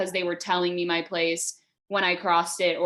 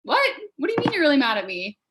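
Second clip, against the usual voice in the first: retold surprised player; 5 semitones higher, 3 dB louder, much faster than usual. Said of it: "And I was like".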